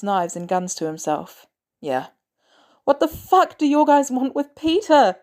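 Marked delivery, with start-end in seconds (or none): 2.8-5.2 raised, higher-pitched challenge; agitated demand. Acted. Barnes demands to know what they want with Peter, agitated. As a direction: demand answers, voice pushed up.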